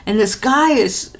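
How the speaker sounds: usual speaking voice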